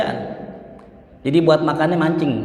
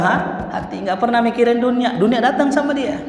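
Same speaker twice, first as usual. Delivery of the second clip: laughing; 9 semitones higher than usual. Real, not acted. Preacher laughs while explaining.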